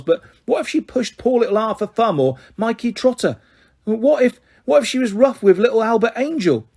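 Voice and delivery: worried foster mother defending her rules; fussy foster mother explaining herself, worried; lightly voiced Missus Chubb.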